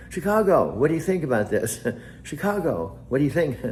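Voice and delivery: high, loud, eager calls of Chicago with laughs; hammed-up replay of an old mistake, laughing; excited mock calling out. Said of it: "I called her Chicago".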